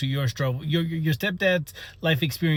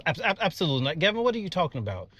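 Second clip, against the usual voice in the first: alarmed; 6 semitones higher, faster than usual. Real, not acted. Teacher alarmed by kid's request.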